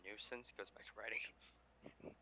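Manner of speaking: hushed whisper, slow; whispered narration. A narrator's reading. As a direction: whisper it slowly. Quiet narration beat.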